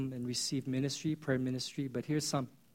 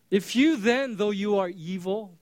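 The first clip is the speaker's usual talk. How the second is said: emphatic preaching; 4 semitones higher, 5 dB louder, slower than usual. Acted. Preacher quoting Jesus emphatically.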